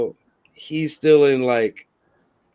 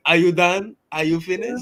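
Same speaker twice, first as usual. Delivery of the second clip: Baku voice. Pretend. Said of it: "In my Baku voice".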